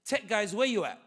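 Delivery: loud call to the tech guys in the room. Real, not acted. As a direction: shout it out to the back rows. Calling out to tech crowd.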